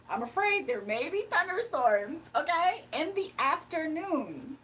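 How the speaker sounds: afraid lifted with a rise, the line slowed like a forecaster; polished weather-anchor phrasing; how they do it. Acted. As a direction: lean on afraid the way weather presenters do. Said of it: "this is how they do it".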